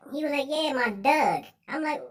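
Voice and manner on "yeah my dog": imitated Baltimore "dog", said as "Doug"; Baltimore accent. Friend insisting about his dog, Baltimore accent. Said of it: "How the hell your whole accent changed?".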